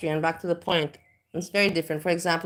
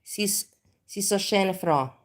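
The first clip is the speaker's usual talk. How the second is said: Austrian dialect; 2 semitones higher than usual. Shown as a demonstration. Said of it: "You cut it up".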